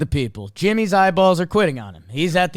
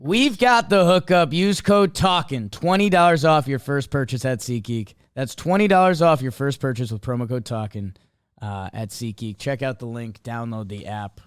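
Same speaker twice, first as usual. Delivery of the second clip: smooth ad read; 3 semitones lower than usual. Acted. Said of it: "I wish I talked like that".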